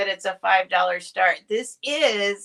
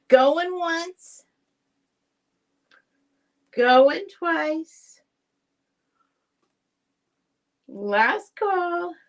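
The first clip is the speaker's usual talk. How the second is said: higher-pitched closing call with long pauses; auctioneer's call; 7 semitones higher, much slower than usual. Real, not acted. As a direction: call out the last chance to bidders.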